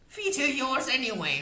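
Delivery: high, fierce crone voice; witch voice. A narrator's reading. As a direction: boast like a proud old witch.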